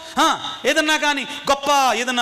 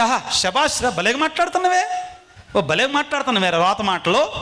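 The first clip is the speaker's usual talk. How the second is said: lightly acted mock congratulation, pitch swooping up; approving parent. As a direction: imitate a parent cheering the child on. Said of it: "అని అభినందిస్తారు". (మెచ్చుకునే తల్లిదండ్రుల అనుకరణ, తేలికగా)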